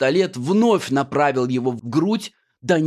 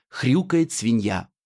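ordinary delivery, nothing marked

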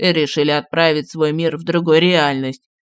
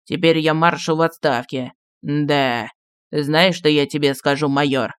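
aggrieved; 3 semitones lower than usual. A narrator's reading. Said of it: "неожиданно с обидой произнёс".

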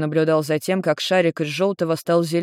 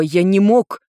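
louder protest; 3 semitones higher, 6 dB louder, slower than usual. Acted. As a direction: shout the denial. Nergal protests.

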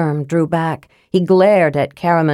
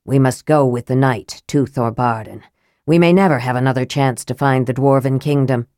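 Raistlin's low voice; 5 semitones lower than usual. Acted.

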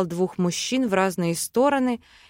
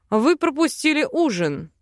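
grumbling; 6 semitones higher than usual. A narrator's reading. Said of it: "ворчал муж".

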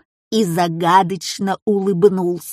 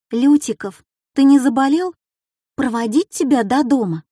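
worried; 3 semitones higher than usual. Acted. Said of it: "встревоженно спросила".

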